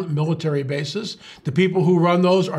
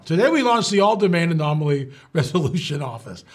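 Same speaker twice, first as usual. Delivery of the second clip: straight official announcement; serious official read. Shown as a demonstration. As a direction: read it like a press release, deadpan. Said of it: "you've gotta be serious now".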